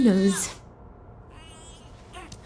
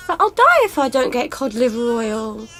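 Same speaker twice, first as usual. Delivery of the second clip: tearful plea; 3 semitones higher, 4 dB louder than usual. Acted. Mother pleads, desperate.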